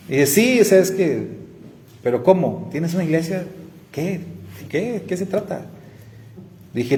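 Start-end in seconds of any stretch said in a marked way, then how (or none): 0.3-5.6 high, disbelieving questions; can't believe what he just heard; incredulous. Retold or imitated. Friend learning he runs a church, high incredulous questions. Friend hears he's pastor.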